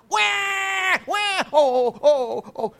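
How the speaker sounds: hammed-up infant bawling; mock baby wail. Imitating crying baby.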